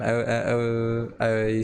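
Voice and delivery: stuttering on the first word; tripping over the words. Real, not acted. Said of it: "I'm stuttering so much".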